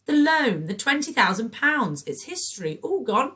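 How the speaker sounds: high, loud, giddy sing-song; breathless giddy trilling; frantic trill. A narrator's reading. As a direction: whirl it like a frantic merry-go-round. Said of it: "trilled Patricia, with a voice like a frantic merry-go-round".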